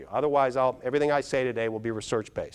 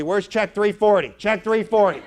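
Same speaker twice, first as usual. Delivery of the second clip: high, slow, loud mock panic; mock screaming; 8 semitones higher, 6 dB louder, slower than usual. Person checking a bank statement, mock frantic yell. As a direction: bark it out like a frantic account holder. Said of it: "You're screaming at somebody".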